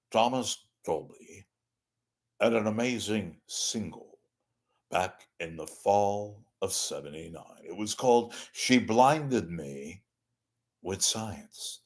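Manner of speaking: a hint of the old anchorman; Walter Cronkite. Host attempting a weak Walter Cronkite announcement. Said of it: "my Walter Cronkite needs a lot of, shall we say, amending".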